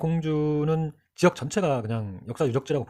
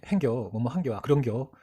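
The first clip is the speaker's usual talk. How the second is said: Chungcheong-style "겨" endings; Chungcheong dialect. Shown as a demonstration. Teacher listing his own dialect habits, Chungcheong endings. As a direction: give sample Chungcheong verb endings. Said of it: "전주 사람들이 잘 안 쓰는".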